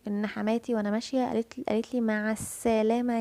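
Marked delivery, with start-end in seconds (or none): 2.0-3.2 "السلامه" with a held, pressed س; stress on the س. Retold or imitated. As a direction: lean on the س in "السلامه". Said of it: "فمع السلامه كده اتكت على السين". (التكة على السين في "السلامه")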